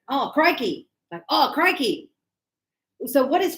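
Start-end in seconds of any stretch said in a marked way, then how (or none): 0.1-0.9 very Australian. Shown as a demonstration. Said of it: "crikey is also very Australian". 1.3-2.1 very Australian. Shown as a demonstration. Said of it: "crikey is also very Australian".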